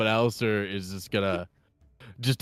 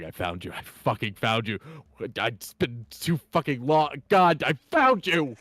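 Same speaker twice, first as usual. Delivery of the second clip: mild tearful reunion; 3 semitones higher than usual. Acted. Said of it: "He's gonna start fucking bawling".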